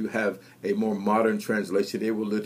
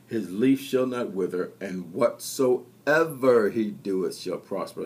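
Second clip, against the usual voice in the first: scripture reading. Acted. Reads Psalm one aloud.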